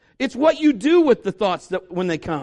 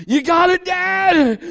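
higher, louder call to his dad; son calling out; 9 semitones higher, 5 dB louder, slower than usual. Retold or imitated. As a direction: shout it up from under the heavy grill. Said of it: "And he's going".

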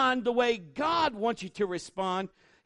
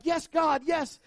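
high joyful exclaim; mock celebration; 6 semitones higher, slower than usual. Worshipper celebrating a blessing, high joyful. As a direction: cheer like a worshipper in good times.

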